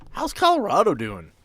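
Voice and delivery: normal talking voice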